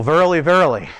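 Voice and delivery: put-on old-school King James. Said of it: "if you want to go old school".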